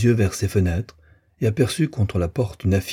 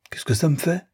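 high-pitched, shrugging question; offhand dismissal; 9 semitones higher than usual. A narrator's reading. Rosanette shrugging off Frédéric's accusation, offhand. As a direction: toss it off as if indifferent. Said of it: "dit Rosanette en haussant les épaules".

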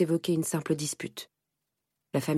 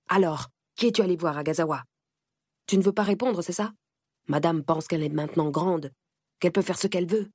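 mild fury. Acted. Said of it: "la fureur de mon père".

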